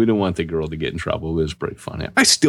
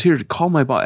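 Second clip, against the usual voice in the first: mock shop girl; 9 semitones higher than usual. Retold shop girl quote.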